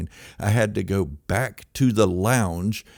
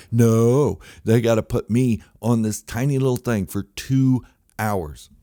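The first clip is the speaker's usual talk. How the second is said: indignant rant; 4 semitones higher, 6 dB louder than usual. Acted. Ranting about tiny plane.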